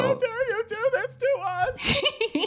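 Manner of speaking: very high, slow theatrical outrage; mock outrage. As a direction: play it hammy betrayed.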